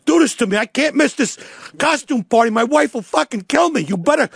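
panicked captain. Retold or imitated. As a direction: whine that the party will be missed. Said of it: "captain's going".

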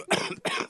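breathy wet cough; chesty cough. Real, not acted. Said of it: "You okay with that cough".

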